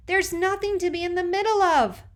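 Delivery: high, loud furious shout; girl yelling in frustration; angry shout. A narrator's reading. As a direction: hurl it at him in anger. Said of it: "Piper shouts".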